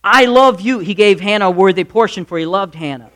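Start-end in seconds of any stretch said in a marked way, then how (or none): 0.0-0.8 higher, slow, stressed declaration of love; lightly acted earnest husband, stretching the key words; husband reassuring. Husband assuring his childless wife, emphatic reassurance. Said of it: "he's referring to the fact that".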